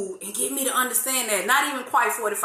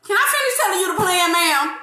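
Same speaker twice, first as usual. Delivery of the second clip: mock God voice; 8 semitones higher, 5 dB louder, faster than usual.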